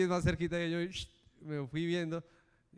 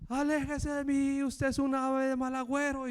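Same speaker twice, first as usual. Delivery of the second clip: retold high yell; 9 semitones higher than usual. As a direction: drive the bad-luck man away. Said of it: "esa señora me grita".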